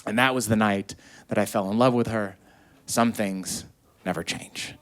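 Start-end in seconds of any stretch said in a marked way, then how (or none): 2.9-4.7 whispered, much softer; unvoiced wistful whisper; hushed aside. Real, not acted. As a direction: breathe it almost to yourself. Wistful aside about love.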